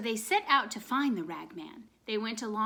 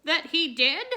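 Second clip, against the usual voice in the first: angry goose; 7 semitones higher, 6 dB louder than usual. A narrator's reading. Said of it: "angrily stomping her foot".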